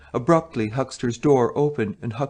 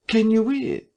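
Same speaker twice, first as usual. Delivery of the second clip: puzzled listener; 11 semitones higher than usual. Acted. Listener at the door.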